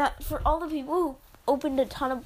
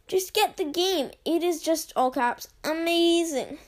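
hammed-up all-caps delivery; all caps emphasis; 2 semitones higher than usual. Shown as a demonstration. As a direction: shout the all-caps words. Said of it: "the amount of all caps".

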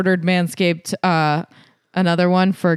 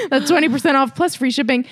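lively, pitched-up sponsor read; podcast ad read; 4 semitones higher than usual. Real, not acted. Host pitching tax-season grooming deals to ladies, playful ad read. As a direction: sell it to the listeners with playful emphasis.

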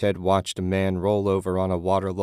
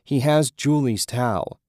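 agitated; 6 semitones higher, 4 dB louder than usual. A narrator's reading. Ted agitated.

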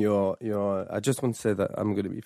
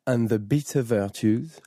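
French accent. Real, not acted. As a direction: say it like a French seducer. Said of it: "in your strongest French accent".

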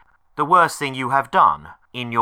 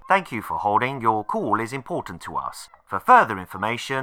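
phone menu voice. Acted. Automated phone menu recording.

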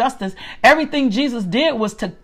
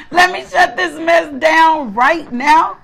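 higher, slow and insistent; emphatic self-command; 5 semitones higher, 3 dB louder, slower than usual. Retold or imitated. Woman ordering herself off social media, raised and emphatic. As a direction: insist on it, pitch lifted and words stretched.

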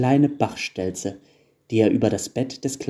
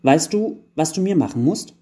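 put-on higher-pitched child's voice, louder; eager elf child; 6 semitones higher, 4 dB louder than usual. A narrator's reading. Eldest elf child asking the carpenter, eager. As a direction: ask it like a kid with a big wish. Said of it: "sagte das größte Wichtelkind und lachte mit einem Zahn".

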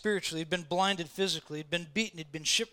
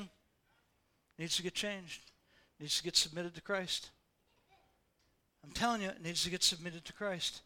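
softer earnest plea; 2 semitones lower, 7 dB quieter than usual. Acted. Sudden soft earnest plea.

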